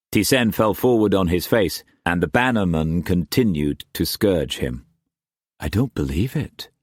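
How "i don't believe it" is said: stunned disbelief. A narrator's reading. Masterson watching T Sen being scourged, stunned disbelief. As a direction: barely voice it, in shock.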